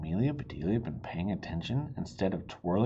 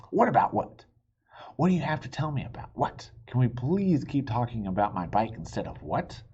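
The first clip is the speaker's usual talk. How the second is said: confused pushing; 3 semitones higher than usual. Acted.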